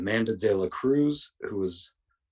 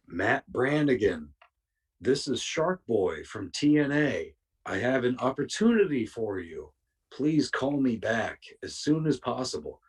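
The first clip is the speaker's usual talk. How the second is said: slow, stiff, businesslike message; mock formal voicemail; 3 semitones higher than usual. Wrestler leaving a voicemail for the young booker, slow and stiff. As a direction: read it like an overly formal caller. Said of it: "talking the exact same way".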